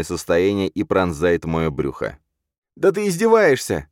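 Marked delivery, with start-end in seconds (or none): 2.7-3.9 high, strained, choking on blood. Acted. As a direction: gasp it out through blood. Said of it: "захлёбываясь кровью". (захлёбываясь кровью)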